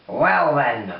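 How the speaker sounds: loud, gloating demon greeting; menacing demon. Acted. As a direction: taunt him like a big demon. Demon taunts the soldier.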